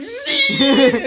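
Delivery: high, loud happy call; calling the dog. Retold or imitated. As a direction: sing out the dog's name across the room.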